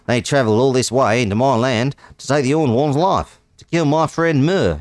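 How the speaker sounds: hammed-up Australian read of "Pack of bandits"; mock Australian narrator, quick on the second phrase; Australian accent. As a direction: lay on a broad Aussie accent. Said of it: "He's an Australian now".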